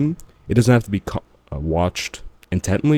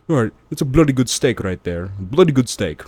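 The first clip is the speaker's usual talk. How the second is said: higher-pitched, badly faked Scottish-British accent; Gordon Ramsay, terrible Scottish accent; 4 semitones higher than usual. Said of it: "That was a terrible Scottish accent".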